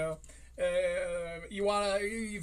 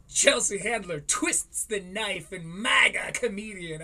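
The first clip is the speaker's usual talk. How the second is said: shouted headline; 6 dB louder, slower than usual. Real, not acted. Reading headline dramatically.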